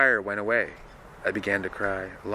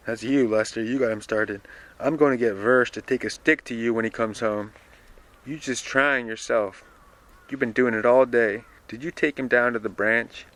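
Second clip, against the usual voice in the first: louder, lightly voiced old nurse scolding; scolding Dilsey; 3 semitones higher, 6 dB louder than usual. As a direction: give Dilsey's scolding a bit more volume. Reads Dilsey scolding Lester.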